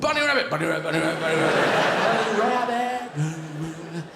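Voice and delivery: hammed-up excited dog chant; frantic greyhound. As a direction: rattle it off like a dog possessed, then stretch it out. Greyhounds bursting out after the rabbit.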